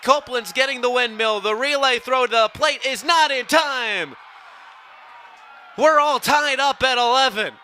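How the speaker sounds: loud, high, rising play-by-play roar; excited home run call. Real, not acted. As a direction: call the tying run like the whole park is on its feet. Inside-the-park home run call.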